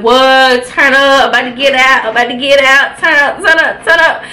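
chanting turn up, rising; hype. Retold or imitated. Hearing she is getting transferred, chanting excited. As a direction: hype yourself up about getting out. Celebrating news of her transfer.

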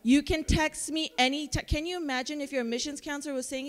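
ordinary talk

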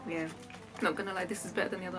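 muffled mm sounds while eating; chewing while talking. Real, not acted. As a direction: mouth partly full of sweet. Seen 2: Sweet stretched before; closed-mouth chewing expressions while tasting, hand to mouth.

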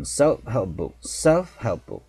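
"self-help book" with F and P barely sounded; swallowed F and P. Shown as a demonstration. Teacher models a hard phrase, "self-help book" with faint F and P. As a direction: run "self-help book" together, consonants nearly dropped. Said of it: "F는 거의 발음이 안 되고 P도 거의".

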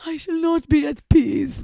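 loud, anguished dramatic reading; emphatic, lightly acted moan. A narrator's reading. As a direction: protest in misery, as read in a story. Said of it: "moaned Catherine".

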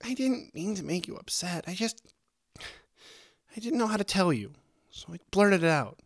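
very high, distressed, faltering apology; upset high voice begging to stay friends; tearful pleading. A narrator's reading. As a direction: blurt it out near tears, trailing off. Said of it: "Angel trailed off, sniffling".

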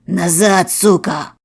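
loud barked command; shouted order. A narrator's reading. Narrator bursting into the flat, yelling. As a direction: shove him back with a yell.

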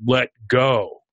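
measured, lightly voiced booming universe; a hint of a booming, all-powerful voice. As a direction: lightly imitate a commanding cosmic voice. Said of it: "from the booming voice of the universe".

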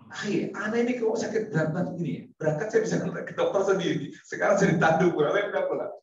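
puzzled complaining friend. Retold or imitated.

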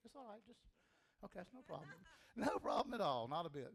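high, hurried it's-fine reassurance; mock flustered reassurance. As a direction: brush it off, a little rattled. Hypnotist flustered by dancing subject.

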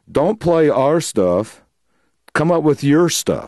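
contrasting stress on "our" and "your"; mentors' advice. Retold or imitated. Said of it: "these guys taught me was".

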